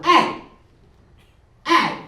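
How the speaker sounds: high, loud street holler across the road; mock catcall shout. Dude calling her from across the street, loud catcall. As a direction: call out hey like a guy across the street. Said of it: "I hear this dude going".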